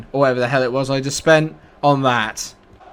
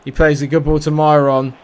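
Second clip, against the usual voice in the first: normal talking voice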